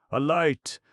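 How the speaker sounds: high, loud panicked yell; frantic yell. A narrator's reading. Sitter in the dark to the others, a frantic yell. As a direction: scream for light. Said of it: "someone yelled".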